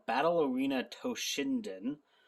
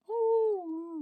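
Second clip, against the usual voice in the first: high loud startled oh; surprised oh; 4 dB louder than usual. Real, not acted. Owner reacting to her cat rolling over, high surprised oh. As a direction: yelp at the cat's sudden move.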